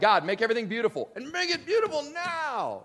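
high, loud, fast whiny demand; hammed-up impatient plea, pitch shooting up on now; demanding prayer. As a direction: whine at God like an impatient child. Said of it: "we're like".

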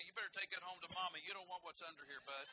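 put-on swaggering dare to a young driver; mock-tough warning to a young driver showing off his car; cocky taunt. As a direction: taunt the kid at the stoplight with a grin. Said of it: "I say".

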